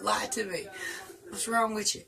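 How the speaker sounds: normal talking voice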